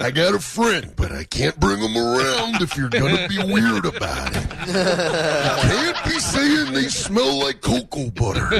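slowed, laughing mock Macho Man growl; Macho Man impression. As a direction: lecture the Hulkster as Macho Man, hammed up. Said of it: "I was doing the Macho Man".

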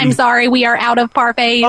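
even, machine-like robot voice. Pretend. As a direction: speak as the store robot. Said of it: "The robot".

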